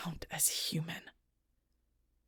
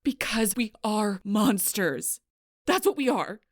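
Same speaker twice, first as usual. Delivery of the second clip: vehement insistence; 3 semitones higher, 5 dB louder, slower than usual. Acted. Warning someone who would live with monsters, vehement. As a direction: drive the bitter truth home hard.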